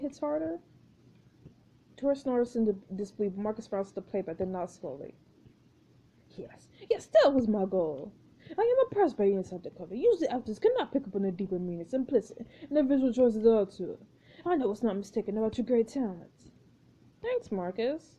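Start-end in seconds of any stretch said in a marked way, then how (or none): 6.4-16.5 lightly voiced pompous director; stilted, formal notes to the cast; a hint of an imperious auteur; exacting film director. Plays Marcus praising the actor.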